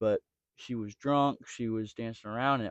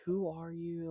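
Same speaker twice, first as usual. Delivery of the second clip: high, soft mock-uppity challenge; 7 semitones higher, 9 dB quieter, slower than usual. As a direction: imitate an uppity woman looking down on someone. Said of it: "she gets all uppity".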